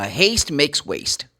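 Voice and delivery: Haste makes waste said slowly, stressing haste; slow clear saying. Shown as a demonstration. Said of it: "that's the expression".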